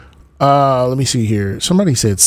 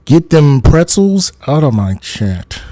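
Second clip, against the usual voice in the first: loud mock order; louder; 3 semitones higher, 6 dB louder than usual. Streamer loudly ordering pretzel posters out of chat. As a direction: shoo them off loudly.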